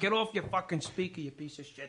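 mild mock New York cursing; New York accent. Shown as a demonstration. New Yorker cursing someone in skit, New York accent. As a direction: throw insults like a New Yorker. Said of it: "I do a New York accent".

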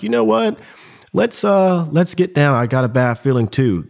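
a hint of a worried team leader telling them to get down; team leader's warning. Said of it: "our team leader was like".

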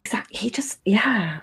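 whispered gossip. Acted. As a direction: hush it like a secret. Gossipy secret about knowing.

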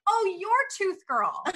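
slow, laughing through the words; laughing recognition. Retold or imitated. Party guests recognizing her, slow and laughing. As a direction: chuckle it like you just placed her. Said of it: "They're like".

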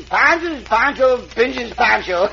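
slow, savoring each word; slow poem recital. Acted. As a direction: recite it slowly and proudly. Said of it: "Pancho make up a poem, Senor".

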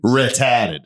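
Boston R at the start, dropped later; Boston pronunciation demo; Boston accent. Shown as a demonstration. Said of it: "if the word starts with an R".

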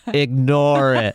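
slow, detached voice from nowhere; slow eerie off-screen voice; disembodied voice. Retold or imitated. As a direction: drag the words out like a distant off-screen voice. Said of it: "hear a dismembered voice say".

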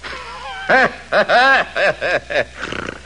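mocking laugh. Bully laughs at backing down.

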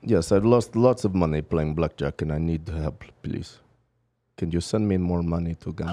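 low-pitched put-on Russian accent for a prank call; fake Russian accent. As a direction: play a pleading Russian caller with a thick accent. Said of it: "What part of Russia was that accent".

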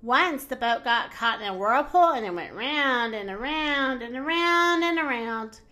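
lively storybook narration with light character voices; reading to children. A narrator's reading. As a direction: read it like a bedtime picture book for kids. Reading picture book aloud.

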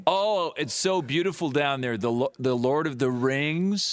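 mock-American gushing; American accent. American praising the tourist's country, mock-American gushing. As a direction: play an American fan of New Zealand. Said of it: "And I'll be America".

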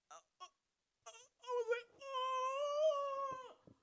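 very high, strained winded gasp. Retold or imitated. Kicked hard in the stomach, high winded gasp. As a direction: sound like the wind was knocked out.

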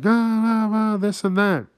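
mock protesting crowd. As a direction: ham up the crowd's indignant protests. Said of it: "People are like".

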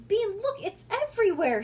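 high, loud exasperated snap; snapped. A narrator's reading. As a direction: snap at the child in dismay. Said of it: "snapped Nancy".

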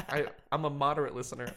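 quick, laughing mock answer; a touch of laughter; fast sheepish laugh. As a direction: hurry it out embarrassed. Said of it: "And I was like".

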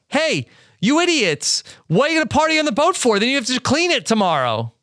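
high-pitched, rapid-fire telling-off; mock exasperated scolding. Host telling off the partying crew, mock exasperation. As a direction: scold them in disbelief, high and fast.

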